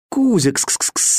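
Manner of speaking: high, slow calling; calling the cat. A narrator's reading. Boy calls his lost cat from below, high coaxing call. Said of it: "звал я кота".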